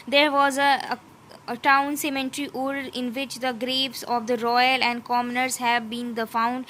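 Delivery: slow, deliberate reading of English text; slow textbook reading. Acted. Teacher reading the textbook passage to students, slow and careful. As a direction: read it out word by word, slowly.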